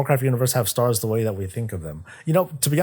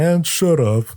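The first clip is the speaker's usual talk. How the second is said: Sargeras snaps; 6 semitones higher, 5 dB louder, slower than usual. Retold or imitated. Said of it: "Sargeras is like".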